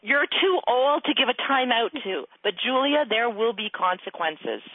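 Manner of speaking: slow, measured parental warning; weighty, spaced-out words; retold stern warning. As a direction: spell out the threat deliberately. Re-enacts stern talk to daughter.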